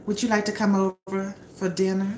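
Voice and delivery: playing the hostess inviting the man to dinner, sweet; sweet invitation. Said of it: "I'm the Loretta Devine trying to cook".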